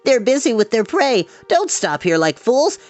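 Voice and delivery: scolding in a frightened high voice; Glue voice. Acted. Glue voice continues.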